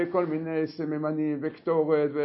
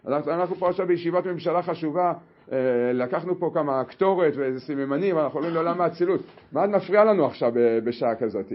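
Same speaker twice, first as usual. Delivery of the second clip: angry king. Acted. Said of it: "הוא התמלא כעס גדול מאוד עליה".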